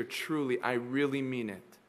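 Jesus promising the thief paradise, hushed and tender; hushed promise. Acted. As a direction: quietly assure him.

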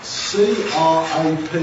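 "C R A P" spelled slowly, letter by letter. Shown as a demonstration. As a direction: spell out C R A P, each letter on its own. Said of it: "in very big letters".

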